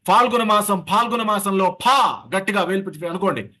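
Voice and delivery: teacher modelling aspirated ఫా; forceful aspirate ఫా. Shown as a demonstration. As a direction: spit the ఫా out from the belly. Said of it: "అలాగే ఫా అనండి".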